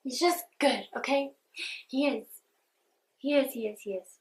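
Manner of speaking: emphatic insistence. Real, not acted. Insists emotionally about Nate.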